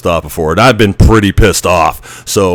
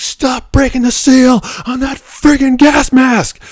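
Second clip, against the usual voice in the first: much higher, slower mock instructor scream; imitated drill screaming; slower than usual. Instructor Teeth yelling at the recruit over his mask, mock scream. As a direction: bellow it like a furious drill instructor. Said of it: "Teeth is just screaming at me".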